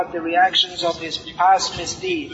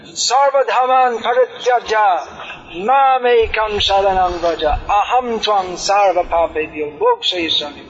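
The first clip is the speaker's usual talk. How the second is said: verse proclaimed out loud, opening higher and slow; declaimed loudly; 5 semitones higher, 3 dB louder, slower than usual. Shown as a demonstration. Teacher showing how Krishna loudly declares the verse. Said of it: "he says very loudly".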